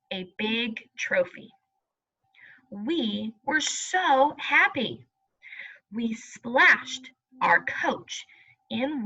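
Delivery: put-on slow, clear storybook reading for young pupils; reading to children. Teacher reading a class storybook aloud, slow and clear. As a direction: read it out slowly like a picture book.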